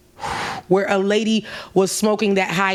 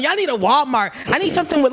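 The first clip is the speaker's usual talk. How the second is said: mock yell; 5 semitones higher, faster than usual. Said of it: "just yelling".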